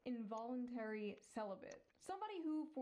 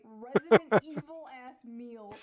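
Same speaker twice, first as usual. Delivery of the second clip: loud, slow, laughing through it; 19 dB louder, slower than usual. Real, not acted. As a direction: crack up mid-phrase. Laughing at the meal photo.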